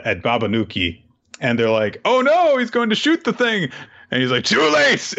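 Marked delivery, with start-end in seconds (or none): 2.0-3.7 high, mock-panicked squeal. Prisoners panicking as the warden aims, high mock squeal. 4.4-5.1 high, louder mock villain shout; gleeful villain cry. Warden gloating before he fires, high mock shout.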